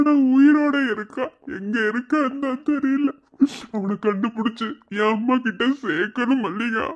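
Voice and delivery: acted tearful longing for a lost brother. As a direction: speak through held-back tears, voice sinking at the end. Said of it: "நீங்க அழாதீங்க மாமா". (அழுகை கலந்த குரல்)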